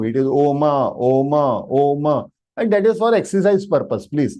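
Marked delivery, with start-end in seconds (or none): 0.0-2.3 Oma said in two syllables, "oh-maa"; mispronounced Om. Retold or imitated. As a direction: Oma with an open "aa" tacked on the end. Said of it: "In yoga, they say".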